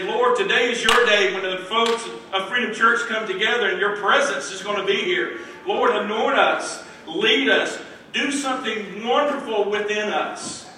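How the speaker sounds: earnest preacher calling on the Lord; preached prayer. Acted. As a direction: pray it out boldly for the congregation. Preaches, voicing the church's prayer.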